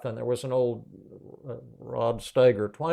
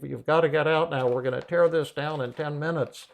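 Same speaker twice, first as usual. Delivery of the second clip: raised, firmer mock demand; urgent order; 4 semitones higher, 4 dB louder than usual. Superintendent orders the tenant out through the door, acted urgency. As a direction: act out an insistent eviction warning.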